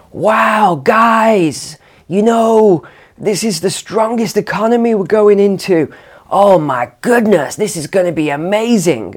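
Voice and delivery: put-on a gushing, over-the-top American accent with a wide-open shout on Wow; butchered Biden American accent. Mocking the president's upbeat speech in a bad American accent. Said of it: "butchered American accent there".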